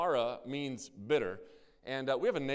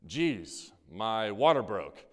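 lower, offhand, slow "my water broke"; wife's casual remark; 6 semitones lower, much slower than usual. Retold or imitated. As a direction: toss it off like nothing's wrong. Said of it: "this is exactly how she said it".

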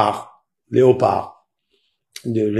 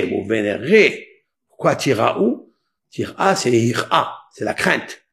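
normal talking voice

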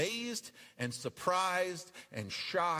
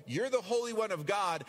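evil spirit voice; 6 semitones higher, 4 dB louder than usual. Acted. Evil spirits declare Jesus.

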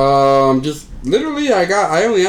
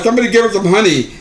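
retold joke line; 3 semitones higher, faster than usual. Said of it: "I'm like".

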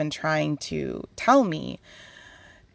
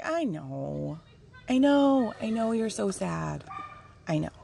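gentle reassurance. Acted. Spirit consoling the sad speaker, gentle reassurance. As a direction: comfort someone who is hurting. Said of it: "gently but firmly".

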